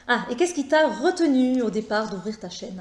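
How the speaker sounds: clear, animated read-out of a question. Real, not acted. Reads the question out loud.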